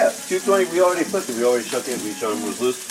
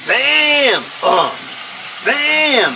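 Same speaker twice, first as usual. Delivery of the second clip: catchphrase shout; 9 semitones higher, much slower than usual. Pretend. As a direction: yell it like a TV chef. Chef catchphrase.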